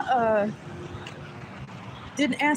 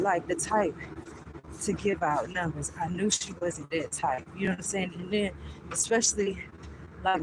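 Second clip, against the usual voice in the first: lower, softer confiding; serious aside; 4 semitones lower, 5 dB quieter than usual. Real, not acted. Explaining her stalker past, quietly serious. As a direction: drop your voice, heavy and confiding.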